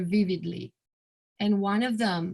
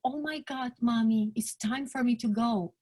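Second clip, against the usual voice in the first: happy and cheerful; 3 semitones higher than usual. Retold or imitated. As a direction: let her go gently happy, almost glad. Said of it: "Very happy and cheerful".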